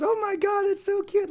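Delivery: high, squealing gush; gushing stranger. Retold or imitated. Shoppers gushing over the puppy in a high squeal. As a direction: gush like a smitten passer-by.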